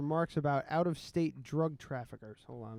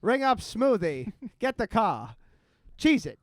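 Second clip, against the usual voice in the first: high, loud cartoon crook voice; hammy old cartoon gangster barking orders; Bugs Bunny cartoon gangster; 5 semitones higher, 6 dB louder than usual. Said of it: "You sound like a Bugs Bunny cartoon".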